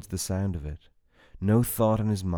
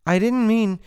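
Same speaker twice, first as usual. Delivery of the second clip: 1 panicked cry; 10 dB louder than usual. A narrator's reading. Jane panics as Tyler advances.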